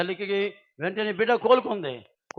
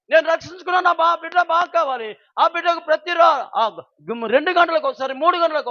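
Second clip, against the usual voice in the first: preaching; 7 semitones higher, 9 dB louder than usual. Acted. Preacher's raised retelling.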